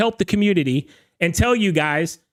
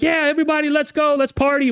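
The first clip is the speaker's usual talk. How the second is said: higher, mock MC hype into the mic; 7 semitones higher, faster than usual. DJ on the mic hyping up the wedding crowd, mock MC hype. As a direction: pump up the crowd like a party DJ. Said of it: "He gets on the mic".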